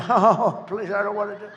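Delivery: laughing through a mock refusal; laughing, half-hearted mock whine; laughing mock plea. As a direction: chuckle while playing the reluctant one. Mock reluctant Cheney, laughing.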